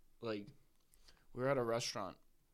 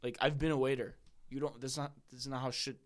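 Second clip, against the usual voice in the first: retold telling-off; 3 semitones higher than usual. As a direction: retell snapping at someone, mildly heated. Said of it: "I just started yelling at her".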